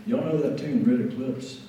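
drawled Alabama accent, imitating a composer. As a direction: put on a friendly Southern Alabama accent. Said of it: "do my best Alabama accent".

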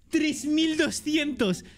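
slow, high, stunned; amazed. Real, not acted. Streamer stunned by his viewer count, slow and high. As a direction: drag out each number in disbelief.

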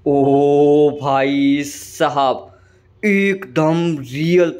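slow, stretched-out awe at the view; real amazement, drawn out slowly; amazed drawn-out wow. Real, not acted. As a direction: let the wonder drag out each word. Sees realistic water in game.

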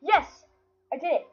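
loud, high victory cry; triumphant shout. Real, not acted. Finally beats the level.

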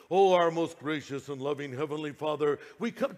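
mock-ornate, drawn-even praying tone; flowery prayer. Preacher mimics people praying to God, flowery and ornate. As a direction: imitate an over-pious, ornate prayer. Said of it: "their prayers are so flowery and ornate".

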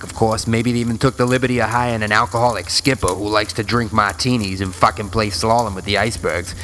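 put-on Good Will Hunting Boston accent. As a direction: lay on thick Boston vowels. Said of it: "how bad my Boston accent is".

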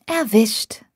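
whispered teasing aside; teasing whisper to her husband. A narrator's reading. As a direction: breathe it out under your breath. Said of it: "raunte ich".

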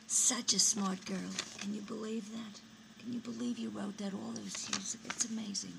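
very soft, wondering praise; quiet marveling. Acted. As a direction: drop to a hushed, proud murmur. Mother marvels quietly after the farewell.

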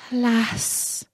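sorrowful princess. Acted. Princess laments to husband.

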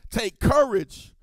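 bold encouragement. Acted. Jesus quoted to congregation.

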